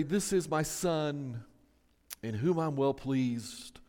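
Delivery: lightly acted divine decree, unhurried and falling away; booming voice of God. God announcing his Son from heaven, slow solemn mock boom. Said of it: "You hear this booming voice".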